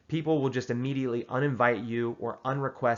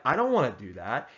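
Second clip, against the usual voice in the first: mean tone. Shown as a demonstration. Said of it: "You don't have to have a tone".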